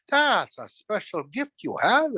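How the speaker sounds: slow, drawn-out flattery; buttering them up. Acted. Trickster buttering up birds about their gift, flattering. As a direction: lay the praise on slowly. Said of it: "I was really buttering them up".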